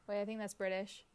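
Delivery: ordinary delivery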